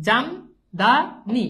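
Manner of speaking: জাম, দা, নি spoken as separate beats with pauses; split into syllables. Shown as a demonstration. Teacher to class, counting syllables, syllable by syllable. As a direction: tap out each syllable. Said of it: "দেখেন তাহলে একটা, দুইটা".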